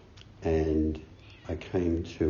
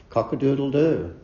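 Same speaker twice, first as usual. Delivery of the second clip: rooster crow; 7 semitones higher, 7 dB louder than usual. Pretend. Teacher answers koan with rooster call.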